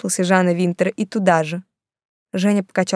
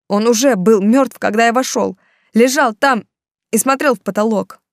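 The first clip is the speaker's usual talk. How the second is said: tense confession; 4 semitones higher, 6 dB louder than usual. A narrator's reading. Artyom confesses to Tamerlan, agitated.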